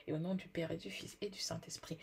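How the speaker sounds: whispered blessing; whispering. Real, not acted. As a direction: breathe the blessing softly. Blessing spoken softly.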